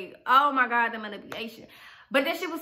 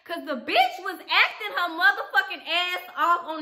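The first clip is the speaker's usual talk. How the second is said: mocking laughter; 6 semitones higher than usual. Real, not acted.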